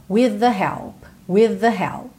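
"With the help" with one voiced TH; single merged TH. Shown as a demonstration. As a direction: glide "With the" through one buzzing TH. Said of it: "A gente junta num T H só". ("With the" com um TH só)

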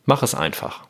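"Mach es" leads into a stressed, falling "einfach". Shown as a demonstration. Podcaster closing the third reading, "einfach" stressed. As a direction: land the accent on "einfach". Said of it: "dritte Betonung ist auf dem Einfach".

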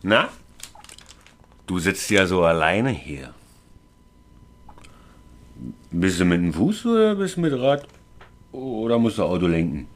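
put-on town drunk. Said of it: "Also ich bin der Betrunkene".

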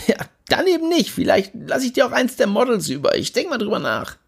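cocky friend, pushy and carefree; Jimmy Blue voice. Acted. Jimmy laughing it off.

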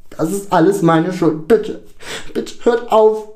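high, loud anguished plea; hysterical screaming. A narrator's reading. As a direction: cry out in guilt, out of control. (außer sich schreiend)

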